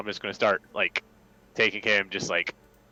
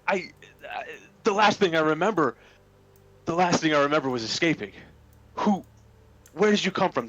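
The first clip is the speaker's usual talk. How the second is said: higher, halting bewilderment; confused captive character; 7 semitones higher than usual. Acted. Captive recalling the escape to a stranger, halting and confused. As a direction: grope for the last thing you remember.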